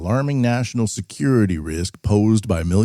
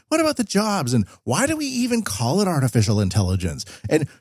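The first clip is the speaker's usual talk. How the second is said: high-pitched mocking whine of naive worry; exaggerated high voice of a clueless worrier; mock Western hand-wringer; 10 semitones higher than usual. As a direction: fret in a silly high voice, slowing down towards the end. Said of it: "That's what so many people in the West".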